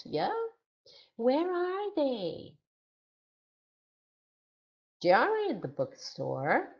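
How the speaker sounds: animated classroom voice with swooping questions; teacher addressing class. Shown as a demonstration. Teacher walking a class through two pictures, animated instructing voice. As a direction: prompt and praise pupils, stretching key words. Demonstrates a lesson to imagined pupils.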